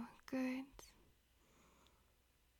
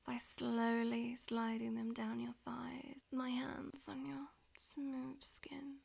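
whispering. Acted. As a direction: whisper it close to the ear. Whispered throughout.

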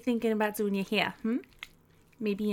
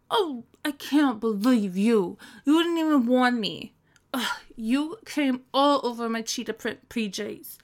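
exasperated scolding; 4 dB louder than usual. Acted. Scolding boyfriend after the mess.

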